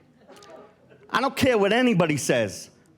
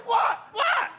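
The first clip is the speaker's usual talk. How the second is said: startled what; 14 semitones higher than usual. Retold or imitated. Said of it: "I said".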